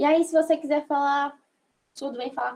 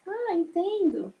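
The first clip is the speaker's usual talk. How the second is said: slow, higher realizing ah; 6 semitones higher, slower than usual. Shown as a demonstration. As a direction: draw it out as it dawns. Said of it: "você fala". (ah entendo lento e mais agudo)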